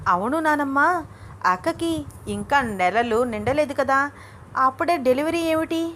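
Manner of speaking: surprised questioning, pitch climbing at the end; puzzled by the early news; astonished. Acted. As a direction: ask in mild astonishment. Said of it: "ఆశ్చర్యంగా అడిగింది".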